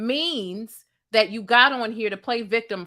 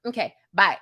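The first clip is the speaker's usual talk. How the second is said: mock breezy goodbye; 2 semitones lower than usual. Mocking a star signing off her live video breezily. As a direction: toss off the goodbye like ending a call. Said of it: "and then".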